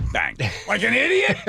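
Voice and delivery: high, laughing jab at an idiot; cackling mock put-down; laughing mockery. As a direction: laugh through the insult. Mocking Schmitty slamming hand.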